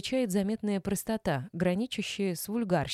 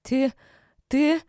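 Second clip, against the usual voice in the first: louder, higher furious sputter; hissed fury; 7 semitones higher, 8 dB louder than usual. A narrator's reading. Mistress sputters at the wife, furious and louder. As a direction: choke on anger. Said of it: "вдруг прошипела она".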